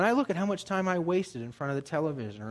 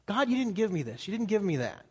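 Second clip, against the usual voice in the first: mock complaining to God; 6 semitones higher than usual. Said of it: "we complain to God".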